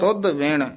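"ਤੁਧ ਵਿਣ" as its own phrase; pause placement demo. Shown as a demonstration. Teacher marking the rest, short separate phrase. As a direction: stop after "ਵਿਣ". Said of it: "ਇੱਥੇ ਵਿਸਰਾਮ ਲਾ ਦੇਣਾ ਹੈ".

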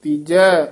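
ਤੀਜੈ stopped short with a catch and a falling tone. Shown as a demonstration. Teacher demonstrating recitation, a catch on ਤੀਜੈ. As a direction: clip ਤੀਜੈ with a stop at the end. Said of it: "ਇਹ ਤੀਜੈ ਪਦ ਤੇ ਯਮਕ ਲਾ ਦੇਣੀ ਹੈ".

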